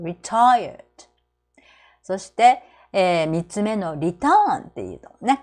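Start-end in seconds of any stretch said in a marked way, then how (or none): 0.0-0.8 retired with a vague first syllable and stress on the end; stress on -TIRED. Shown as a demonstration. Teacher repeating retired for learners to copy. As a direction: blur the "re" of retired, land on -tired. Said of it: "ちょっとあやふやに発音しましょう".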